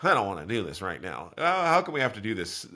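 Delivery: lightly acted toddler whine; tantruming two-year-old. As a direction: grumble like a reluctant small child, half-hearted. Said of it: "two-year-old temper tantrum where it's like".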